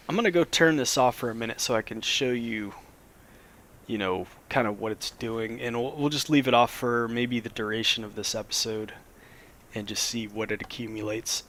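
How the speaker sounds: slightly scratchy voice after a cold; a little hoarse, scratchy throat. Real, not acted. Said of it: "my voice is a little scratchy".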